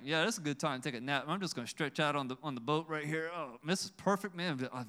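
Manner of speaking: a hint of easygoing contentment, imitated; mock-relaxed, murmuring to himself lightly; lightly voiced relaxed napper. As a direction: play someone casually settling down for a nap. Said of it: "he's taking a nap. He's like".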